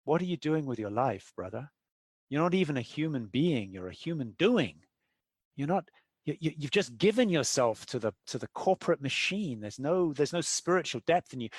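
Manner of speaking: a hint of a serene guru, barely shifted; understated spiritual calm, almost the speaker's own voice; calm namaste voice. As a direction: gently preach like a lightly voiced calm monk. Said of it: "he says in a very calm kind of namaste voice".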